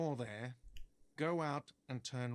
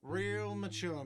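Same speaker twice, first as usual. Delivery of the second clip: whiny voice; 6 semitones higher, slower than usual. Acted. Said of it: "a whiny voice shouts".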